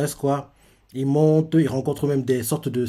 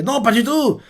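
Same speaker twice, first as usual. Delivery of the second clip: higher, lightly voiced girl; mock girlish denial; 9 semitones higher than usual. Ase brushes off Zuma's concern, in a high mock voice. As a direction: brush him off in a raised voice. Ase denies being cold.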